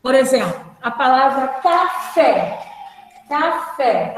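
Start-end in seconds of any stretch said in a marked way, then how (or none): 1.6-2.7 café drawn out, weight on the final fé; stress on last syllable. Shown as a demonstration. Teacher showing class the strong syllable, stressed ending. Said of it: "a sílaba tônica é forte". 3.3-4.1 Café with weight on the final fé; stress on last syllable. Shown as a demonstration. Teacher repeating the example, stressed ending. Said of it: "a sílaba tônica é forte".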